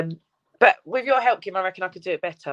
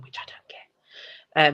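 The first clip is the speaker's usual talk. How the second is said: whispering; 2 semitones lower, much slower than usual. Real, not acted. Aside about not getting algorithms.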